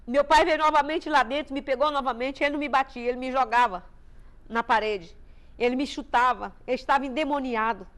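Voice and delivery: ordinary talk, nothing marked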